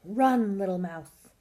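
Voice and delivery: loud urgent warning cry; shouted. A narrator's reading. Animals warn mouse to flee, shouted. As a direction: shout the first word, then ease off. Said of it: "shouted the squirrel and the fox".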